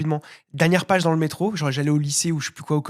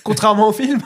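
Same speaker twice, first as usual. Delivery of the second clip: louder quip squeezed between laughs; laughing quip; 6 semitones higher, 4 dB louder than usual. Real, not acted. Co-host signing off with a dig at the film, laughing. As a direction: crack up on your own joke.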